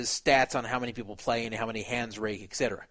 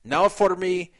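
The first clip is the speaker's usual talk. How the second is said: put-on Russian accent; 3 semitones higher, 4 dB louder than usual. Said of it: "I'm putting this accent in".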